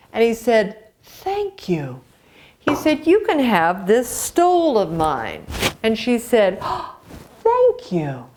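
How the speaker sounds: lively storybook read-aloud with character voices; reading to children. A narrator's reading. Teacher reading a folktale to young pupils, lively. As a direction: tell the tale brightly to a class.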